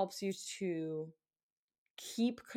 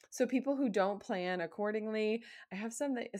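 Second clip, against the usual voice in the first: ordinary talk, nothing marked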